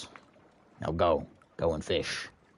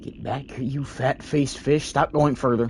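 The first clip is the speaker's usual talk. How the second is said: yelling at fish; 7 semitones higher, 4 dB louder than usual. Real, not acted. Player yells at escaping fish.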